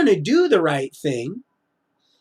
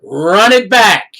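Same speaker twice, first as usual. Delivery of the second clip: voice of God; 4 semitones higher, 9 dB louder, much slower than usual. Retold or imitated. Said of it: "He said".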